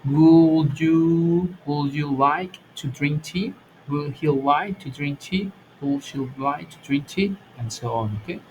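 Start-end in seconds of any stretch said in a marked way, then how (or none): 0.0-7.4 slow example questions. Shown as a demonstration. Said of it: "Y digo".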